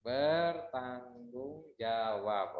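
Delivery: "Bertanggung jawab" very slow and soft, counted out; syllable by syllable. Shown as a demonstration. Teacher counting syllables quietly while waiting. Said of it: "ada berapa suku kata".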